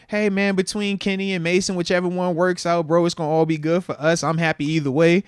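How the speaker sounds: imitating a stock media answer; cookie-cutter talk. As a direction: rattle off the diplomatic athlete line. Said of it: "You know the cookie cutter talk".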